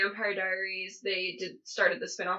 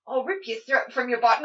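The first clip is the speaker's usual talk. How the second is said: failed accent imitation, landing near Australian; badly faked, Australian-sounding accent; botched Klaus accent. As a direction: try a villain's accent and miss into Australian. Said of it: "make fun of Klaus's accent".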